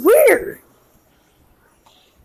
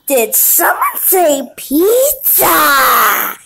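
slow eerie voice; 3 semitones lower, much slower than usual. Acted. Animatronic voice cuts in.

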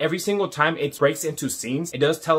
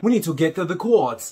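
rough attempt at a British accent. Fan imitating James McAvoy, attempted British accent. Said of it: "I can't pronounce that accent".

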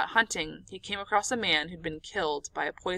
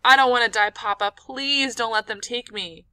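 tearful pleading; 3 semitones higher, 6 dB louder than usual. Retold or imitated. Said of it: "tears running down my cheeks".

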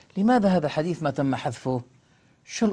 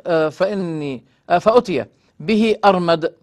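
formal hadith reading; 3 dB louder than usual. A narrator's reading. Lecturer reading a hadith to his listeners, formal recitation. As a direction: read the sacred text out deliberately.

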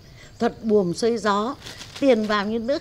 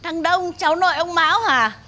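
calling out; 8 semitones higher, 6 dB louder than usual. Acted. Grandma hails young man loudly.

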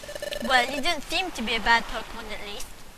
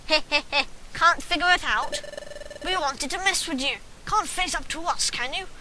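lightly voiced gangster slipping into British; gangster turning British. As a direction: start as a gangster, drift into a British accent. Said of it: "go from gangster to British".

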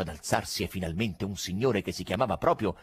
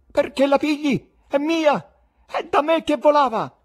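loud, much higher quarrelsome yell; angry grabbing shout; 7 dB louder than usual. Acted. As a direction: claim the money furiously. Spectators fight over banknotes.

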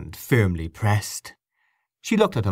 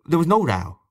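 moody; 7 semitones higher, 3 dB louder than usual. A narrator's reading. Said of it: "said Gabriel moodily".

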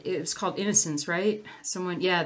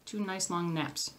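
slow, softer, word by word; slow and careful; 6 dB quieter, slower than usual. Shown as a demonstration. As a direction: take it slowly to get each word right. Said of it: "Try to say that fast".

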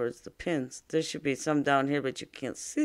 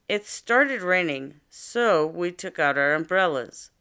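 slow example reading; 2 semitones higher, 5 dB louder than usual. Shown as a demonstration. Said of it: "Let's listen to another example".

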